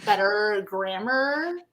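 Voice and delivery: put-on Valley Girl. Teasing a friend's Valley Girl act, drawling Valley Girl accent. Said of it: "do a really good Valley Girl".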